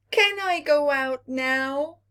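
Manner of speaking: put-on high, begging child's voice; sick Little Earth begging his parents to go out; pleading little planet. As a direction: ask it hopefully, like a sick child. Little Earth asks again.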